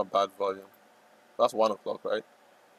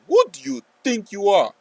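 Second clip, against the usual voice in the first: mock rant; 9 semitones higher, 5 dB louder than usual. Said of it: "I'm just screaming at them".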